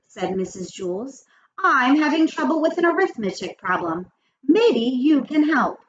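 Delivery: lively, expressive read-aloud with character quotes; read-aloud storytelling. A narrator's reading. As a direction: read the chapter to children, lifting the dialogue. Reads story aloud to children.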